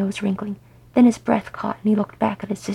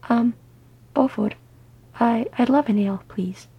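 rather nervous; 2 semitones higher than usual. Acted. Gimlis shyly accepting an ale from Beaufort, nervously. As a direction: falter shyly between words. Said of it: "she sounded rather nervous".

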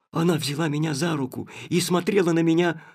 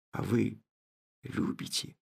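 soft, barely voiced; whispered; 7 semitones lower, 9 dB quieter than usual. The narrator whispers to Nastenka that she loves. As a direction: breathe it out softly.

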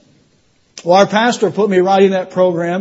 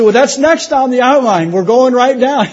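can't hold back a happy laugh mid-line; laughing while telling; 4 semitones higher than usual. Real, not acted. Recalling leading mother, laughing.

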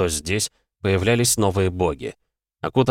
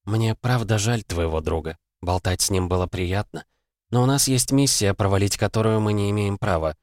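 lightly voiced Canon. Woman tells the hero she pities his friend, lightly voiced, restrained. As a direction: lightly voice a sympathetic ally with a mission.

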